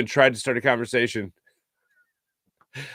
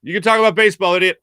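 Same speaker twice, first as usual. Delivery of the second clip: a hint of a gruff old broadcaster, louder; Harry Kalas; 4 semitones higher, 4 dB louder, faster than usual. Old announcer ribbing the nervous kid, lightly voiced. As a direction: tease the nervous kid affectionately. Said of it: "caught my nervous sweats and went".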